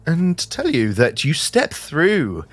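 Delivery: measured, descriptive game master read; scene-setting narration. Acted. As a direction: paint the scene for the players slowly.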